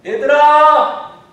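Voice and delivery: long, high, full-voiced call; shouting across the water. Shown as a demonstration. Preacher calls to disciples on a distant boat, shouting. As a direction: call out to a boat far offshore. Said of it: "몇 번을 아마 이렇게 부르지 않았을까".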